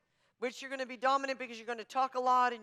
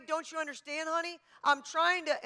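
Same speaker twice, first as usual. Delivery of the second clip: higher, insistent pleading to her husband; a touch of choleric pushing; 4 semitones higher than usual. Retold or imitated. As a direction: press your point like a coach who won't let go. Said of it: "it's the coach in me".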